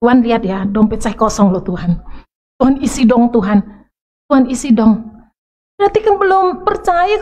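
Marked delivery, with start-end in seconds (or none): 0.0-5.0 whiny begging prayer. Retold or imitated. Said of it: "Itu dulu saya".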